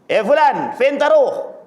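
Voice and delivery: loose, offhand colloquial Arabic, lightly voiced; casual Arab street talk. Preacher imitating everyday Arab market talk, lightly voiced. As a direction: mimic how Arabs chat in the market, lightly. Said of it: "Itu bukan bahasa Arab resmi".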